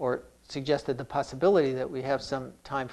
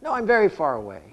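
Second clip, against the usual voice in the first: louder, quicker, anxiously checking progress; mock self-measuring; 5 dB louder than usual. A practitioner grading their own progress aloud, mock-anxious. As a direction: rattle off how close or far you are. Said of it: "We could say".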